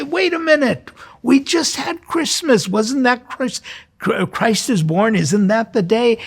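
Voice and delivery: mock-confused listener cutting in; imagined listener objecting. Priest voicing a doubting listener, playfully puzzled. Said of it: "You say".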